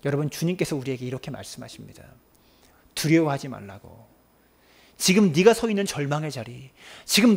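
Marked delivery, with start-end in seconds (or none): 0.0-4.1 low, hushed comfort; whispered. Real, not acted. Pastor comforting the flock, whispered. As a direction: whisper it close.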